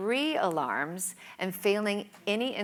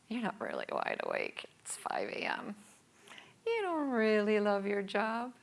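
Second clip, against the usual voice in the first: sneaky inner whisper; 3 semitones higher, 4 dB quieter than usual. Acted. Her inner negative voice, whispering in the shower. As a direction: whisper it like a confident inner critic. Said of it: "a quiet yet confident voice whispered".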